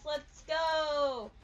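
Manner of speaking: real little victory shout; excited cheer. Real, not acted. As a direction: hype yourself up. Cheering after finding toolbox.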